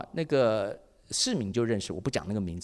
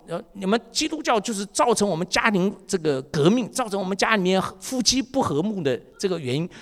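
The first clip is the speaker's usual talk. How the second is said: mock official tone; 5 semitones higher than usual. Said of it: "他就已经打官腔了".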